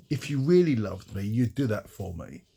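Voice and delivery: mock emotional blackmail, leaning on the opening; manipulative guilt-trip. Someone guilt-tripping a loved one into a favour, manipulative. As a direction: lay on a mild guilt trip. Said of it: "Maybe even in that tone of voice".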